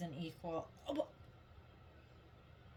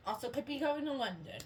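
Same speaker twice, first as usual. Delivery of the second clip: a rough, put-on London accent; sloppy mock London accent; terrible British accent; 4 semitones higher than usual. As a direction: try a bad British accent, a bit higher. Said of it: "Excuse my terrible accent".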